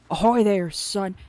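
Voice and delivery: put-on loud old fisherman calling ahoy; sea-dog greeting. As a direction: bellow it across the docks. Voicing the fisherman Willy.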